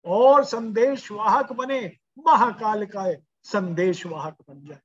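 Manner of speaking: rally them with mounting urgency; impassioned preaching. Real, not acted. Preacher calling elders to take up the flag, impassioned.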